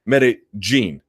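Medellin with the double L as an English J. Shown as a demonstration. Correcting listeners on what Mexicans don't say, J-sound Medellin. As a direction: say Medellin as "meda-JEEN". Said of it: "you don't hear Mexicans say".

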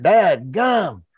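slow drawn-out country tow truck voice; Mater warm-up line. Shown as a demonstration. Actor warming up in the studio, slow country Mater voice. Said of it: "So I'll be like".

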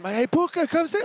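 high-pitched mock hailing call; imitated calling out. Imitating Cam Newton calling to him.

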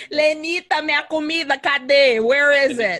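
loud, demanding husband yelling for dinner; mock tantrum. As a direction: shout for the food like a spoiled brat. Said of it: "Temper tantrum immediately".

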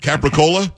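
CAPRICOLA in full, "cap-ri-CO-la"; every syllable of CAPRICOLA as written; spelling pronunciation. Shown as a demonstration. Host quizzing co-host, CAPRICOLA said as spelled. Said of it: "You can't say capricola".

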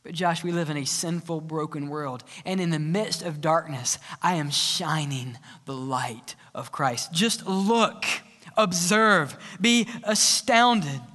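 lightly voiced fatherly God. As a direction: speak down calmly as God correcting. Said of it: "And God says".

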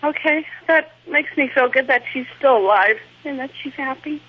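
tearful, voice breaking; real tears, choking up; crying. Real, not acted. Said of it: "I'm crying".

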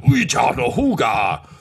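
slow, alien snarl in character. Acted. Agrippa the Blue defying the intruder, slow snarl. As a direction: snarl it slowly in an alien tongue. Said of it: "just kind of snarls".

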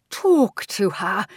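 slow, eerie ghost voice; ghostly aunt. Acted. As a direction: speak like a drifting ghost. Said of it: "said her ghost aunt".

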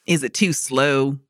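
playful Southern accent demo. Shown as a demonstration. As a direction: try out a light Southern accent. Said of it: "my Southern accent".

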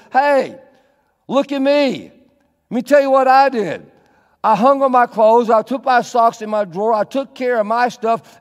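hammed-up smug spouse; smug bragging spouse. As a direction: brag like you want a medal. Spouse bragging in sermon skit.

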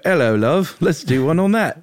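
high, loud comic put-on voice; Josh. Host mimicking co-host pitching a show, high silly voice. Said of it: "He went".

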